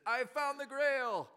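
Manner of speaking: high, loud, drawn-out mock proclamation; triumphant announcement. Actor reveals the Grail to the audience, triumphant announcement. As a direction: call it out like an actor onstage.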